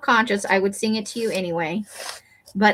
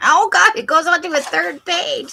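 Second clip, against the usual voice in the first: laughing; 8 semitones higher than usual. Real, not acted. Amused at long poem.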